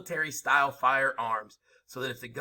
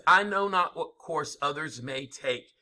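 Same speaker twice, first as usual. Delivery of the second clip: oratorical quote; slower than usual. Retold or imitated. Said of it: "He says".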